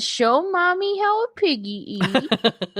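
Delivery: slow, coaxing mommy voice; slow teasing baby talk. Retold or imitated. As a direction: coax him like a toddler, slowly. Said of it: "Yeah, I said".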